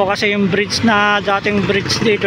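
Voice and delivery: ordinary talk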